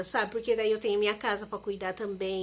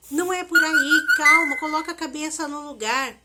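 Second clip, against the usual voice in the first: imitating a friend's urgent, raised pleading; friend pleading loudly; 4 semitones higher, 4 dB louder than usual. Friend on the phone calming Simone in panic, urgent loud pleading. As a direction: replay her friend begging her to stop, louder.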